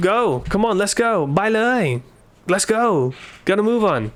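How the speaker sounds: high, brisk hurry-up call; urging to hurry. Shown as a demonstration. Teacher demos urging friends to hurry up. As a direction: hurry someone out the door. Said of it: "If I just say".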